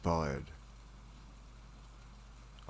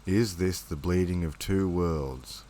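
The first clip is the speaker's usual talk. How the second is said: poem reading; slower than usual. Acted. Reads own poem.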